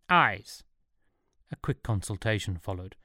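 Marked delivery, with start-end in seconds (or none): 0.1-0.6 put-on one word in Swiss German accent; confidently wrong Swiss German English; bad English. A narrator's reading. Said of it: "answered in unfalteringly bad English".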